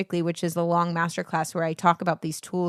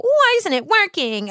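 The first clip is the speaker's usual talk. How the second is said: much higher, louder petulant whine; entitled whine; 12 semitones higher, 4 dB louder than usual. Retold or imitated. Entitled singer complaining, a much higher louder whine. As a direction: complain like a spoiled student. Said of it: "it's entitled when you go".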